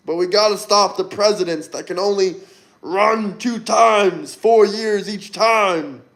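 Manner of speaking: lightly put-on senator voice; mock campaign plea, hitting the key words; Bernie Sanders. Streamer mocking a career politician for his viewers, light senator impression. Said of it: "Bernie Sanders impression".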